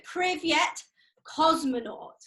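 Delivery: "Privyet, cosmonaut" word by word, pause between; Russian phrase demonstrated. Shown as a demonstration. Teacher showing children a greeting, "Privyet, cosmonaut" pronounced carefully. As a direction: model "Privyet, cosmonaut" clearly for repeating. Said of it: "teach you how to say".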